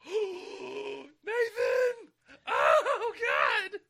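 high, loud near-crying yell; ecstatic shouting. Retold or imitated. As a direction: scream it overcome with joy. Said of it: "It's the exact quote. He sounded exactly like that".

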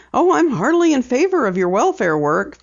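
chuckling. A narrator's reading. Daughter humors her father, lightly chuckling. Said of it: "Penny chuckled".

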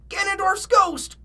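high, loud, drawn-out cry; cried out. A narrator's reading. Shaggy names the creature for Fred, frightened cry. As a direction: wail the name in cartoon fright. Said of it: "cried Shaggy".

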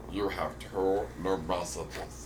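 slow, soft, even recorded prompt; automated voicemail voice. Retold or imitated. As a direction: read it like a phone system. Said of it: "the automated voicemail voice".

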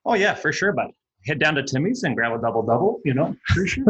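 hammed-up Canadian, chummy and lilting; Canadian accent. Shown as a demonstration. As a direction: put on a broad Canadian accent for fun. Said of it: "Can you do a Canadian accent for us?".

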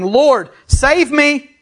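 high, drawn-out plea for rescue; crying out. A narrator's reading. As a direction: cry out slowly, as if sinking. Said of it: "he cried out".

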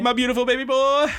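put-on high, loud, gushing over the boy; doting gush. Podcast host gushing over crying Bakugo, high doting coo. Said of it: "gushing over character".

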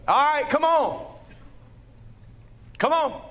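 high, sing-song coaxing call; lightly voiced Jesus beckoning. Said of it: "Jesus is like".

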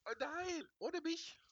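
phone held away; faint voice far from phone; very quiet. Real, not acted. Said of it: "Du bist ganz leise".

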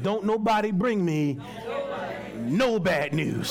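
slow, drawn-out wicked witch line. Retold or imitated. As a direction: lightly play the witch, stretching the last words. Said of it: "Just like the wicked witch".

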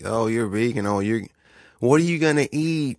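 high incredulous mock voice; mocking people. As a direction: imitate a baffled meat-eater. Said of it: "they're like".

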